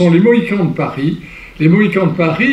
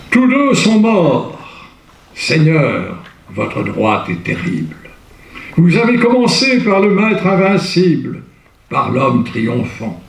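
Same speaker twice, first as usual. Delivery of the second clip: grave theatrical verse, fading to a hush; declaimed Hugo verse. Shown as a demonstration. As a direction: intone the elegy like a lament. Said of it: "Là, c'est du Victor Hugo".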